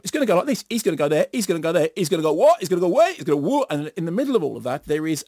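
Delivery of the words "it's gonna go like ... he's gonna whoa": half-hearted geezer bluster, ticking off each step; mock geezer plotting. Critic mocks film villains planning a heist, lightly voiced geezer. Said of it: "In the manner of a bunch of Larry geezers planning out a job".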